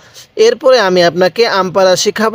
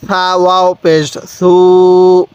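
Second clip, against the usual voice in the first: slow spelling; slower than usual. Shown as a demonstration. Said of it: "কিভাবে শিখব?".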